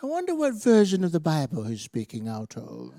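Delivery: lightly voiced fussy critic; picky listener. Churchgoer quibbling about the preacher's Bible, mildly fussy. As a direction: wonder aloud, hesitant, as a mock nitpicker. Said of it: "you're not gonna go".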